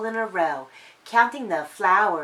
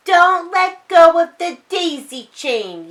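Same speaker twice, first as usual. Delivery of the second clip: higher, louder call; yelling sisters; 8 semitones higher, 10 dB louder than usual. A narrator's reading. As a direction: shout a warning to their brother. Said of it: "yelled his sisters".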